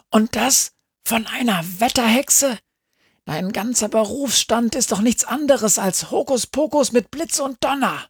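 hohe, spöttische Hundestimme; höhnisch. A narrator's reading. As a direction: macht sich lustig über sie. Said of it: "höhnt Sami". (spöttisch und hoch)

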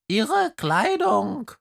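a skunk pupil calls out from the front row; calling skunk. Acted. Skunk in the front row calling out to the teacher. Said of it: "ruft ein Stinktier".

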